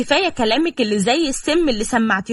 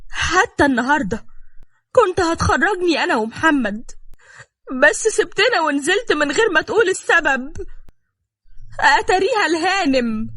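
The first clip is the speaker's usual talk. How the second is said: higher-pitched, resentful listing of grievances; aggrieved complaint; 5 semitones higher than usual. Acted. Wife complaining to Hossam about his sister, aggrieved. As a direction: pile up the grievances, pitch climbing towards the end.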